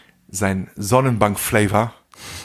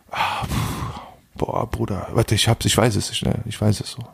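stalling; 4 dB quieter than usual. Retold or imitated. Friend acted searching for a word.

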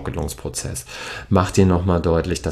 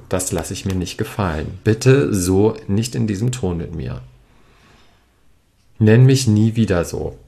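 firm boundary. Shown as a demonstration. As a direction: set the limit, steady and strong. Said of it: "zeige Stärke".

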